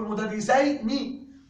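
very slow مدرسين with full nun; very slow model of the wrong word; wrong form shown. Shown as a demonstration. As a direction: drag out مدرسين as the mistake. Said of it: "لا تقل".

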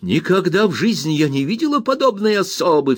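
high scandalised exclamation; outraged cry. Acted. Miss Murdstone cries out at the aunt, high and scandalised. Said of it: "вскричала мисс Марстон".

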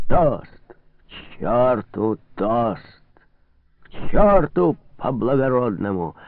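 put-on drunk defiance. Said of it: "махал руками тряс кудлатой бородой хозяин".

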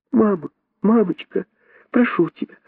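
put-on very high child's begging, building; pleading little monkey. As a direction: beg mum, rising to a near-wail. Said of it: "умоляла мартышка-дочка свою мать".

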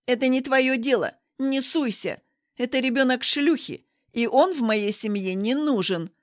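loud furious yelling; furious outburst. Acted. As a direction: explode at her in rage. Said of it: "Рита вспыхнула от гнева".

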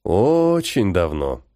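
slow, low and bitter; a stranger bitterly recalling the past, slowly. Acted. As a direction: let the regret weigh on each word. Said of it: "горько произнёс незнакомец".

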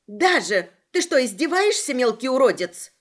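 loud angry snap; angry outburst. Acted. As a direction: lash out at the little pest. Agata snapping at leprechaun.

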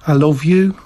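lightly voiced Liverpool accent. Shown as a demonstration. Teacher showing how another Liverpudlian would say it, Liverpool accent. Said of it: "They say, like".

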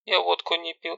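high, offended protest; offended little sister; hurt. Acted. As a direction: sound wounded and wronged. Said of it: "обиженно".

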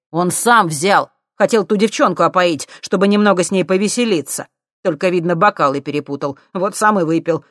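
loud, pleading excuses. Acted. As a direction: shout your way out of the blame. Vitka loudly excusing himself.

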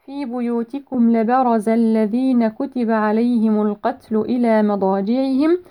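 measured tajweed recitation; Quran recitation. Shown as a demonstration. Teacher reciting a verse for students, measured tajweed. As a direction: recite with held long vowels and precise consonants.

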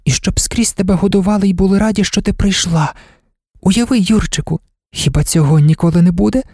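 put-on high-pitched girl, carried away by a daydream; girl's excited daydreaming; dreaming girl. A narrator's reading. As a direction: voice her wishes high, eager and wistful. Girl dreams aloud in story.

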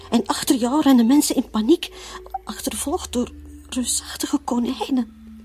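rising panic. Acted. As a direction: let the fear burst out. Nightmare climax. (angstig en luider vertellen)

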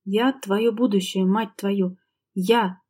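slow, syllable by syllable, a mild growl. Acted. Husband growling at his wife that he is her future, slowly and syllable by syllable. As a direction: spell it out slowly like a warning. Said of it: "по слогам прорычал Миронов".

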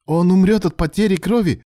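high, loud cry of horror; horrified. A narrator's reading. Alan hearing Ilya's plan for Ruslan, horrified. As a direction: protest aghast, pitch shooting up. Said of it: "ужаснулся Алан".

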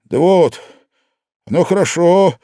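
plain reading voice

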